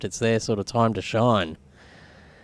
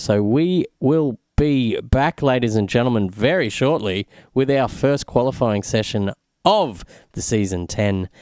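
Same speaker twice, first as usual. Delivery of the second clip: announcer voice. Acted. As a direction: address the audience like a race host. Commentator sending the broadcast to break.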